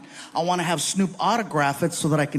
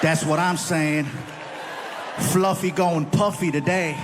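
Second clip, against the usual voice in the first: lower, laid-back rapper impression; imitating a rapper; 3 semitones lower, slower than usual. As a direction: drawl it like the rapper, a bit lower. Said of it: "he is like".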